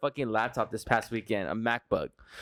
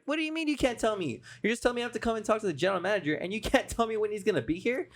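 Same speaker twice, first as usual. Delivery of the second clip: much higher, fast exasperated retort; retold angry outburst; 7 semitones higher than usual. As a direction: replay your disbelief at the clerk, pitch jumping up. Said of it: "my voice was raised".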